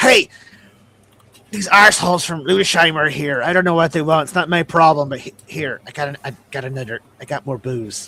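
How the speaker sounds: calling out in goblin voice. Game master voices the tankard goblin calling out, yelling goblin voice. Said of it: "the tankard goblin yells".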